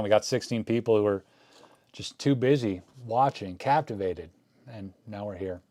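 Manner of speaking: talking while chewing gum; words around a wad of gum. Real, not acted. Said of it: "let me spit out my gum".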